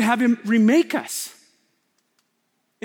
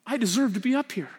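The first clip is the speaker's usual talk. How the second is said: quiet confession; 4 semitones lower, 5 dB quieter than usual. Acted. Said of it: "I'll say it from the cross".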